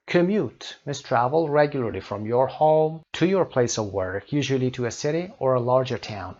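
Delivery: slow, deliberate English read-out; measured classroom reading; teacher reading aloud. Acted. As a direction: read it out slowly for learners. Reads English definition aloud to learners.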